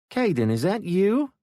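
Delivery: high, loud call from hiding. Acted. Woman calling from the underbrush to the boy, high and loud. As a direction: call out to him from the brush. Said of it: "a female voice called".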